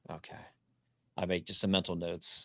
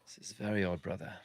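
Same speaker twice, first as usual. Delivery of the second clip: whisper. Acted. In-character aside to brother.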